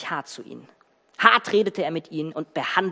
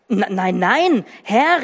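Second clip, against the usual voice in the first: alarmed cry; 3 semitones higher, 5 dB louder, much slower than usual. Acted. Brothers protest their innocence to Joseph, alarmed. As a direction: cry out in panic before the ruler. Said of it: "riefen sie".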